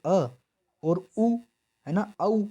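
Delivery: अ and उ sounded separately, then blended into औ; joining vowel sounds. Shown as a demonstration. Teacher showing two sounds join, spelled out deliberately. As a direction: say अ, pause, उ, then glide them together as औ. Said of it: "तो क्या जुड़ रही है?".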